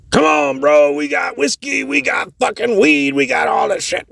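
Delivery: high, coaxing party voice; friendly rocker. Retold or imitated. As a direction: lure him in, all friendly. A musician inviting homeless guy.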